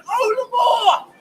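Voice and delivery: impassioned cue. Acted. Poet cueing the crowd, high impassioned call. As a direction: sing it out with passion.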